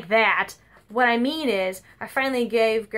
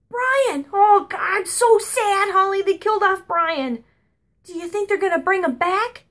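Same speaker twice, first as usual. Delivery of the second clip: distraught grandma; 9 semitones higher, 4 dB louder than usual. Retold or imitated. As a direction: lament like a death in the family. Grandma distraught over cartoon.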